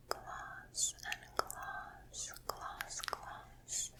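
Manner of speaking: very slow whispered repeats; repeated trigger word. Acted. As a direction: stretch each whispered word out. Trigger words repeated slowly.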